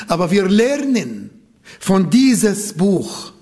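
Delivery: normal talking voice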